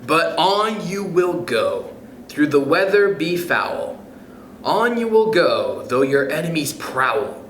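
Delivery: lilting, rhythmic picture-book read; reading aloud to kids. Acted. Reading Oh, the Places You'll Go to listeners, rhythmic storybook voice. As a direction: bounce through the rhymes like a bedtime story.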